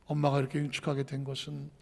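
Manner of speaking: hushed confession. Retold or imitated. 엄마가 딸에게 화재의 진실을 털어놓듯 훨씬 작고 낮게. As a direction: tell her the painful truth quietly.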